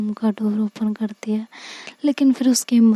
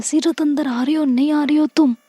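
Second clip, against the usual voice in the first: higher, called across the house; calling out; 4 semitones higher than usual. Acted. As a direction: call her name out from the other room. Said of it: "Anika चिल्लाती है".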